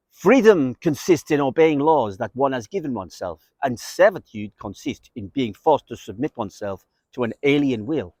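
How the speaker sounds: a hint of a mock French accent. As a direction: read the quote in a half-hearted French accent. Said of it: "That's my French accent".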